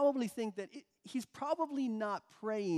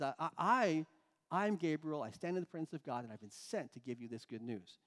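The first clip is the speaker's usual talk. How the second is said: quiet angel's reply; 6 semitones lower, 5 dB quieter than usual. Retold or imitated. Angel answers the doubting priest.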